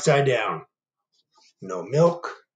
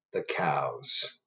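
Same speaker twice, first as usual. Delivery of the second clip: soft whispered sign-off; whispered signature; 9 semitones lower, 9 dB quieter than usual. Acted. Reader whispering the cows' signature to kids. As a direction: whisper it like a secret. Cows sign their note.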